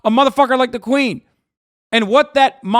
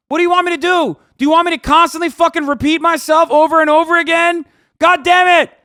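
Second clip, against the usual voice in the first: raised, higher-pitched rant; fed up and venting at the viewer; exasperated; 5 semitones higher, 3 dB louder than usual. Real, not acted. Streamer to chat about repeating himself, exasperated.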